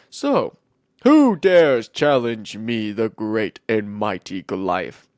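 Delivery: slow, grandly menacing giant; boastful Goliath. Acted. Giant taunting the Israelite army, boastful and slow. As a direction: issue a challenge like a lightly voiced giant.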